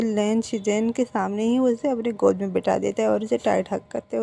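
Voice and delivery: ordinary delivery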